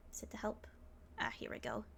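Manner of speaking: unvoiced whisper to yourself; a quick private whisper while searching the menu. Real, not acted. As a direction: whisper the question under your breath. Muttering to self at game.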